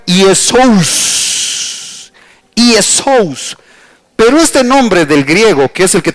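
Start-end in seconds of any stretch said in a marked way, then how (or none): 0.1-3.6 "Iesous" sounded out with lingering final s; Greek pronunciation demo. Shown as a demonstration. Preacher showing how we should pronounce the Greek name, "Iesous" drawn out. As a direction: model "Iesous" deliberately, stretching the last syllable. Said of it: "nosotros deberíamos pronunciar".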